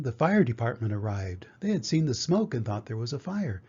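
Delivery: put-on lively, clearly told children's story; picture-book reading. A narrator's reading. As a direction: read to young children with expressive swings of tune. Reads a picture book aloud.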